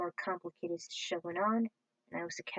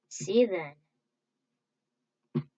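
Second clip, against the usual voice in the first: drawn-out sign-off; 6 dB louder, much slower than usual. Pretend.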